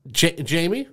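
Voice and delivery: "Jamie" said the English way, JAY-mee, questioning; Americanized name. Retold or imitated. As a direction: read out "Jamie" haltingly with an English J. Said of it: "because she's reading it, Americanizing it".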